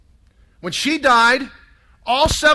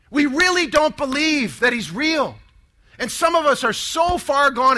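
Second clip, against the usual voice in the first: urgent, higher emphatic testimony; fiery conviction; 3 semitones higher than usual. Retold or imitated. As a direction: retell a sister's fervent plea to the family. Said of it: "she's got fire in her eyes".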